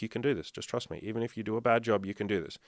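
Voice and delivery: lightly acted soft encouragement; retold reassurance. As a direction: reassure quietly, as if retelling it. Retold reassurance to panicking friend.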